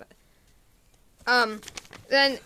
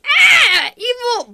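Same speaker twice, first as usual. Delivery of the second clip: high, loud play scream; mock alarmed cry; 9 semitones higher, 10 dB louder, much slower than usual. Cat crying out before it dies, hammed-up alarm.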